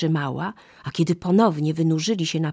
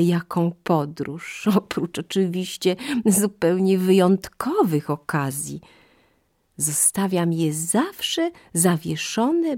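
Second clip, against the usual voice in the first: higher, slow, musing monkey voice; hesitant monkey; 4 semitones higher than usual. Acted. Monkey tempted by the fruit, high and hesitant. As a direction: think it over aloud, up high and unhurried. Monkey spinning her tale.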